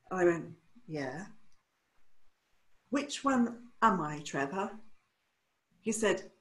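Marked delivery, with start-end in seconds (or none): 0.9-1.3 very soft, low, timid questioning answer; a tiny, cowed reply; quiet. Retold or imitated. Stylist to her mentor after his verdict, very quiet. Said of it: "And I was quiet". 2.9-4.7 soft, hesitant, slow question; timid question. Retold or imitated. Stylist to mentor Trevor, soft timid question.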